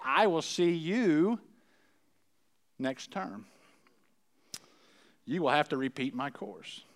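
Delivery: measured professor's verdict, slowing on the key words; lightly acted stern professor; professor delivering bad news. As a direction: hand down the verdict with deliberate pauses. Professor delivers verdict in read story.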